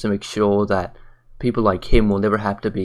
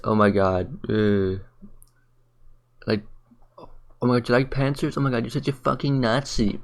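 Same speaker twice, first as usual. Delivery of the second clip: mocking imitation; 4 dB quieter than usual. Mimicking a rude commenter to his viewers, mocking. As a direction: sneer it back in a silly put-on voice. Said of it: "like, says".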